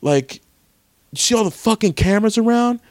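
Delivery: high, over-the-top outraged thug; evil supremacist. Retold or imitated. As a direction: ham up the furious racist. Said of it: "He was like".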